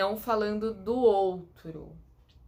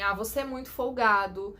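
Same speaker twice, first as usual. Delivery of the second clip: mock accusation; 4 dB louder, slower than usual. Shown as a demonstration. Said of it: "Então, assim".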